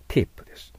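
"ティップ" begun with a t sound, not ch; correct tip. Shown as a demonstration. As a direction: say "ティップ" crisply as "ti-p". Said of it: "これじゃないです". (「チ」でなく「ティップ」と発音)

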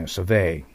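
survey with the stress on the second syllable, vey; English stress drill, sur-VEY. Shown as a demonstration. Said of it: "アクセントに気をつけましょうね".

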